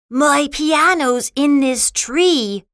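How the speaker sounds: high, distressed complaint; upset Schroeder. Acted. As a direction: report it in high-pitched dismay. Upset Schroeder reports lost piano.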